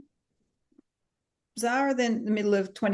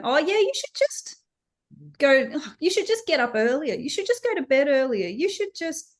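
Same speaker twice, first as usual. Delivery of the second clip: higher, sing-song brush-off advice; mock breezy advice; 4 semitones higher than usual. Mimicking people who breezily tell a new mum what to do. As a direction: parrot the easy advice mockingly. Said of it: "somebody going".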